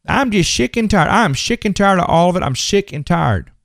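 exasperated country twang. Acted. Preacher mimicking his own stock complaint, in a country voice. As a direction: put on a country accent for the complaint. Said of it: "a country voice".

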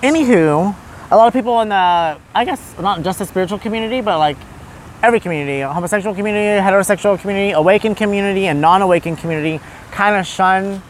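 low, earnest guru-speak; mock spiritual podcast host. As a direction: play a solemn self-help host.

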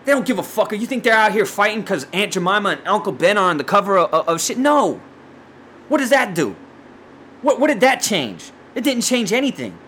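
high-pitched, exasperated challenge; heated rant. Real, not acted. Podcaster dismissing packaging changes as empty, heated. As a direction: demand answers, worked up. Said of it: "I'm gonna have to simmer down now".

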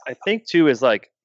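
talking through a burp; a beer burp mid-sentence; burping the words. Real, not acted. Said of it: "Budweiser make me burp".

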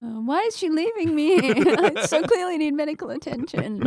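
put-on high, whiny injured kid; whiny hurt kid. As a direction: complain like a beaten-up kid. Quoting injured bully's line.

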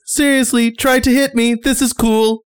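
muffled voice. Acted. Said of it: "a muffled voice".

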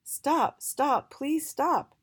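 loud call, slowing on the last stop. Acted. Mister Y calling to the passing trolley, loud and drawn out. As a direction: flag the trolley down, then drag it out. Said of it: "Mister Y called out to Jolly".

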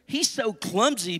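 high, swooping storybook cow; lightly voiced cow with a sing-song lilt; mooing cow. A narrator's reading. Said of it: "mooed the cow".

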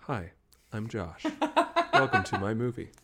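a hint of a bored, even movie hero; Josh's flat drone. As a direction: drone it out with no tune at all. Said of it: "has talked like this".

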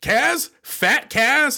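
as if hearing a name you know; surprised recognition. Retold or imitated. Frank hearing who was killed, mock surprise. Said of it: "is like".

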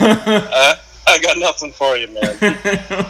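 high, laughing put-on voice; laughing mock reply. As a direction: crack up while playing along. Joking callback among friends.

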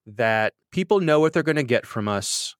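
ordinary delivery

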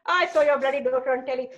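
gossiping auntie. Retold or imitated. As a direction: imitate a nosy auntie breaking news. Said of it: "like some auntie comes to your mum going".

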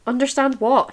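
a touch of sharp anger; angry question. Acted. Dorian questioning Sybil, mild angry snap. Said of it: "he asked angrily".

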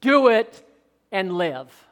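law talks like this. Retold or imitated. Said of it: "Paul said".

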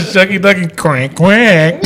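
slow giggling catchphrase; laughing catchphrase. Retold or imitated. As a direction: laugh through "Shucky Ducky Quack Quack".

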